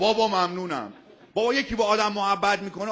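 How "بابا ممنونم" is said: mocking his thanks. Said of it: "دوباره گفت".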